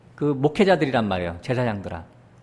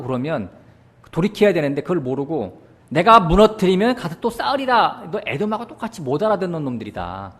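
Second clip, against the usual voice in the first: scolding God; 4 semitones higher than usual. Acted. Preacher voices God rebuking Israel.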